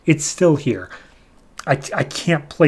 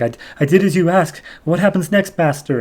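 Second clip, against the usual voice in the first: lightly imitated eager servant, pitched higher; mock grovelling question to a master; servile minion; 4 semitones higher than usual. Minion bowing at his master's knees, mock servile voice.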